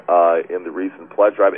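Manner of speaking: ordinary talk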